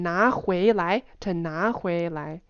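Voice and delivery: "拿回来" with each rising tone fully spelled out; deliberate "拿回来", every syllable stressed. Shown as a demonstration. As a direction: give all three syllables their full rise. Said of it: "like, it's a spectrum".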